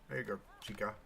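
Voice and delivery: soft whisper to the little character. Real, not acted. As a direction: whisper it gently, coaxing. Coaxing in-game character quietly.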